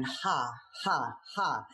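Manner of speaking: demo fake laugh. Shown as a demonstration. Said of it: "when you're going".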